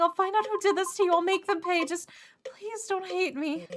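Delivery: high, fast, tearful vow that fades into begging; desperate crying. Acted. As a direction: rush the promise, then beg not to be hated. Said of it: "listen to your cries".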